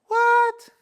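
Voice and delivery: high, loud bewildered "What?"; baffled what. Retold or imitated. Learner lost in fast English, surprised. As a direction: jump up in total confusion. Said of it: "là, vous dites".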